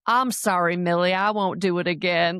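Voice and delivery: lightly imitated backwoods drawl, only a hint of it; a slight country lilt on the apology. Boy apologizing to Millie, still in character, in a mild backwoods drawl. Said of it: "this backwoods drawl".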